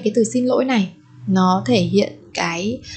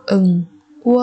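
응원하다 with a pause after each syllable; 4 dB louder, much faster than usual. Shown as a demonstration. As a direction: separate every syllable of 응원하다 for learners. Teacher models word syllable by syllable.

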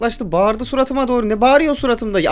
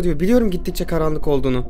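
ordinary talk

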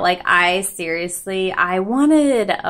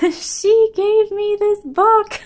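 laughing; 6 dB louder, slower than usual. Real, not acted. Gushing about a gifted book.

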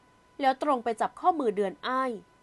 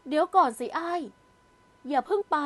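raised, pleading call to stop her; urgent plea to wait; calling after her; 4 semitones higher, 3 dB louder than usual. Acted. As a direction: call out louder and higher so she stops. Praew calls after fleeing girl.

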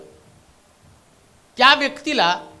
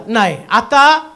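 slow, deliberate pronouncement; God slowly declaring judgement; slow God verdict; 6 dB louder, slower than usual. Acted. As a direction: drag out the verdict with long weight. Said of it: "देव म्हटला".

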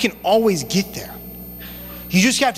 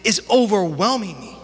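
pitched up, pleading and overwhelmed; anguished inner voice, raised high; voice of despair; 7 semitones higher than usual. Retold or imitated. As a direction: play the worn-out believer who sees only problems. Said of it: "And it's like".

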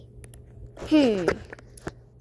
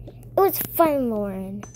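reluctant apology. Acted. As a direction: say it because you're told to. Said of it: "Say it was fun playing to her".

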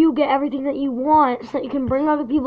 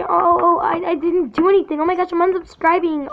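mocking the bully; 4 semitones higher, faster than usual. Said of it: "don't you try to say".

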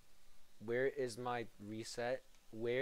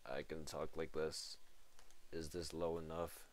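deep voice; 7 semitones lower, 4 dB quieter than usual. Shown as a demonstration. Streamer showing chat how low his voice goes, deep voice. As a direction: lower and lower each line. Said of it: "how low my voice can really go".

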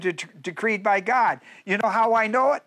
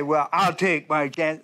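mock casual shrug; 3 semitones lower, slower than usual. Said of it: "a lot of guys will say".

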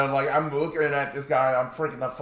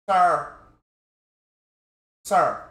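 loud, higher, exasperated "sir"; exasperated call; 6 semitones higher, 8 dB louder than usual. Retold or imitated. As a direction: snap at him to back off. Telling the preacher to leave.

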